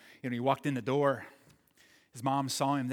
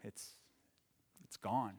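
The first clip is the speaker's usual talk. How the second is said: put-on soft, low, broken-hearted boy; quietly choking back tears; a boy telling his mom the boat is gone; tearful; 6 semitones lower, 11 dB quieter than usual. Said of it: "couldn't say it except through tears".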